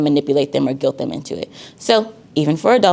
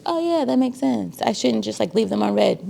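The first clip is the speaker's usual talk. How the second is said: higher voice, lightly mocking a student; imitating a student; 6 semitones higher than usual. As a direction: play the student who just got it. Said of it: "most students are like".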